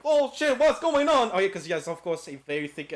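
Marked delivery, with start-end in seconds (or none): 0.0-1.3 mock panicked surprise. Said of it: "It's like".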